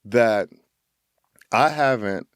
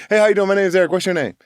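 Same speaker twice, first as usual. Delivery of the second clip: put-on high, loud, bouncy hello to a new kid; eager puppy greeting; 9 semitones higher, 5 dB louder, much faster than usual. Boy on a Chicago street greets other kids as an eager puppy. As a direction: greet everyone like an overjoyed puppy. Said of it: "I was that, that person".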